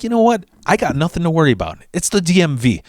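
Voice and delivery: high, breezy self-pep talk; self-reassurance. Retold or imitated. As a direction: talk yourself out of worrying. Talking himself out of worry.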